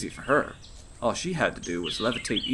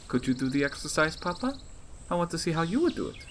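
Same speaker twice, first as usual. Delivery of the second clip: put-on higher girl's voice, asking sweetly; a daughter begging her papa for more play; eager little girl; 6 semitones higher, faster than usual. Child asks father.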